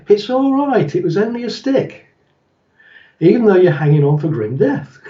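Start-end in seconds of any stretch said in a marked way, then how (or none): 0.1-2.1 high-pitched reassuring sing-song; forced calm. Acted. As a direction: soothe a spooked horse while scared yourself. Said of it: "calm yourself down and go".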